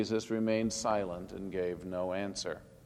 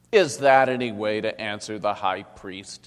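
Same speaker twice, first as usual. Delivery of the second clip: louder, gruff rebuke in another voice; demanding official; 8 dB louder than usual. A narrator's reading. Official rebuking Jesus after striking him, loud and demanding. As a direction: snap at the prisoner. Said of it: "he demanded".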